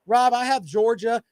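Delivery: co-host bragging about Georgia, mock voice. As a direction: mimic a smug fan's brag. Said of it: "just tell me".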